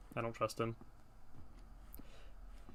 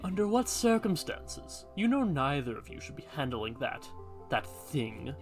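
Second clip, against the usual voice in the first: a hint of a solemn old guardian; hooded man voice.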